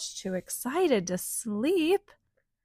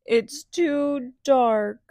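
sniffled; 4 semitones higher, 4 dB louder, slower than usual. Acted. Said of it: "they sniffled".

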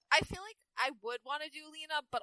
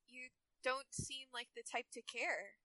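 put-on slow, softer Valley Girl line; tentative Lena; 2 semitones lower, 11 dB quieter, much slower than usual. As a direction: feel it out slowly and softly. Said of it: "She tentatively spoke again".

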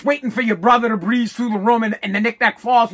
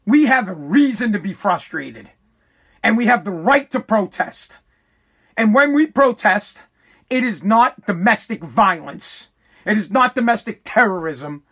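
nice and calm; 3 semitones lower than usual. Shown as a demonstration. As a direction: lower and measured, keeping the temper down. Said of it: "Nice and calmly".

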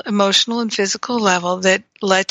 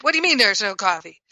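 upset; faster than usual. Shown as a demonstration. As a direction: snap it quickly as if offended. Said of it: "If I were upset".

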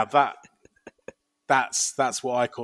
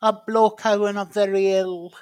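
higher, put-on voice of a sickly Blorko; 7 semitones higher, 3 dB louder than usual. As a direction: play Blorko as a feeble invalid, voice up high. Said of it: "That's basically it".

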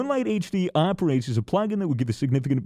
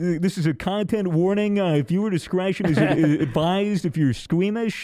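mock news report; 3 semitones higher than usual. Mock news broadcast of game protest.

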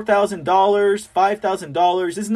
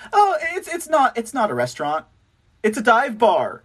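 higher-pitched mock innocence; 5 semitones higher than usual. Host repeating governor's restaurant excuse, mocking.

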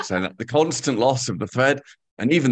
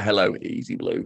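put-on a Manchester accent, a little lower and softer; admittedly poor Manchester accent, read from a letter; greeting listeners in a mock Manchester accent; 5 semitones lower, 4 dB quieter than usual. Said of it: "I get to do my Manchester accent".

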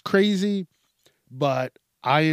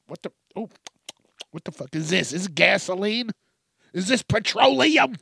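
disgusted shock; 5 semitones higher than usual. Retold or imitated. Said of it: "drink it and be like".

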